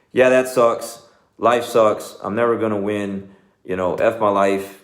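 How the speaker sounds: a hint of whiny woe-is-me; mock pity party. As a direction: ham up the wallowing friend. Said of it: "be like a pity party".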